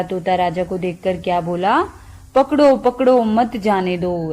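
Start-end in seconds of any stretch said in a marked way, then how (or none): 2.3-4.3 half-hearted imitation of a shouted alarm; imitated parrot's shouting. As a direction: call out like the alarmed parrot, lightly acted. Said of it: "ऐसा बोल के चिल्लाने लगा".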